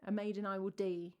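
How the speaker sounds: "D" pronounced "dee" in place of die; quoted lyric ending on a Scots "D"; Scots pronunciation. Shown as a demonstration. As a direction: say "D" with an ee vowel, as in Scots. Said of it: "They say D".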